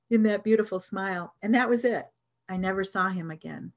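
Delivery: ordinary talk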